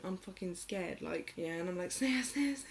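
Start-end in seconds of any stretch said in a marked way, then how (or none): 1.9-2.6 high, hurried pleas by name; mock whimpered repeated name; retold tearful calling. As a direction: imitate crying while trying to wake someone. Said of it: "I'm crying".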